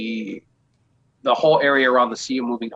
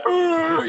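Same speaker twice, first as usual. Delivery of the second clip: high-pitched mock groan of dismay; high retold groan. Players reacting to the talking whale, high mock groan.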